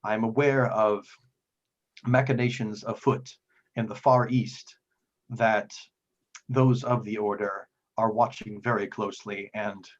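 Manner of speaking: lightly voiced cautious priest; deliberate, formal warning broken by long pauses; guarded devout priest.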